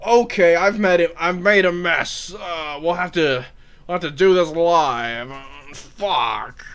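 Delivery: mock newsman coming down from a climax; lightly put-on host voice, easing off; Bill O'Reilly. Comedian's TV host winds down, light Bill O'Reilly impression. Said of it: "All right, that's my Bill O'Reilly".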